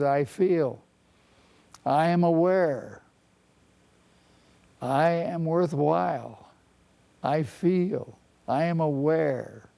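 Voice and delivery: slow, calm affirmations, lightly voiced; steady and reassuring, each phrase given room; healthy inner voice. Therapist voicing the healthy inner voice, calm and slow. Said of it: "what does the healthy voice sound like".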